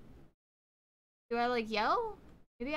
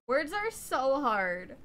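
slowed, self-mocking; slower than usual. Real, not acted. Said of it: "I'm always struggling to speak".

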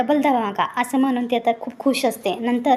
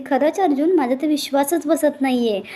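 happy disbelief; 3 semitones higher than usual. Retold or imitated. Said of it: "Priya खूप खुश होते".

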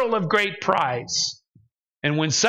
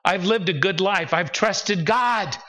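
angry with God; 4 semitones higher than usual. Retold or imitated. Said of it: "that's when I get angry with God".

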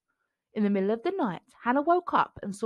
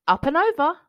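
cheerful gorilla; 7 semitones higher, 6 dB louder than usual. A narrator's reading. Gorilla lifting her over wall.

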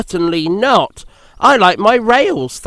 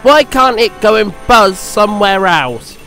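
higher, louder irritated complaint; cross engine; 6 semitones higher, 5 dB louder than usual. A narrator's reading. Percy complains about the buzzing helicopter, cross.

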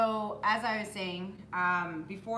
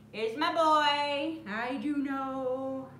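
slow, higher, loving puppy greeting; doggy talk; 4 semitones higher, 4 dB louder, much slower than usual. Real, not acted. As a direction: coo at your big dog slowly. Greeting the dog.

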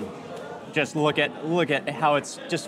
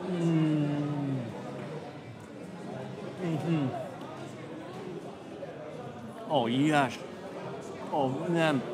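chewing while talking; muffled murmurs between bites; mouth full; 8 dB quieter, much slower than usual. Real, not acted. Seen 1: Took big bite earlier; lips closed, cheeks working while murmuring.

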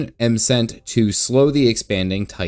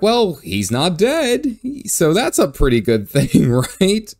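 much higher, slow, awkwardly upbeat with a laugh; mock-cheerful reassurance; 8 semitones higher, 3 dB louder, slower than usual. Player answering the worried bear dad, awkwardly upbeat. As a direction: sell bad news as good news, laughing.

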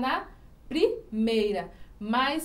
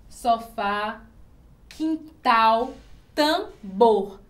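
"sofá, quintal, tambor", each with a strong final syllable; teacher's word list, weight on FÁ, TAL, BOR; stress on last syllable; 5 dB louder, much slower than usual. Shown as a demonstration. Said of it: "têm essa sílaba mais forte". ("sofá, quintal, tambor" com força na última sílaba)

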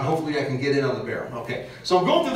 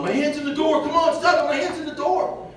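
retold yelling; 10 semitones higher than usual. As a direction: shout it like a panicked man at a car door. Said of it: "and he's yelling".

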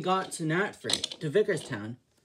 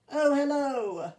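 higher, slow drawn-out hello; D261 greeting; 9 semitones higher, 5 dB louder than usual. Acted. D261 greeting Henry at the station, higher and slow. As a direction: stretch the greeting up high as D261.

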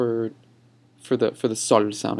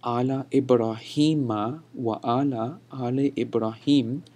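slow recitation with drawn-out long vowels; emphatic verse demo; slower than usual. Shown as a demonstration. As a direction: recite it phrase by phrase for learners. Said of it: "just to recite this verse one more time".

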